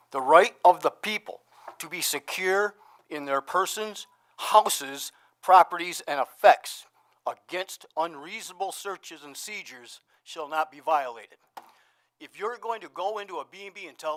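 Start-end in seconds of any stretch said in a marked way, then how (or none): 0.1-11.4 slow, loud, solemn recitation of the text; reciting the Fourth Amendment. Shown as a demonstration. Citizen reciting the Fourth Amendment to the town board, slow and loud. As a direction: read it out like a legal proclamation, slow and loud. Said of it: "Let me bore you with the Fourth Amendment right now".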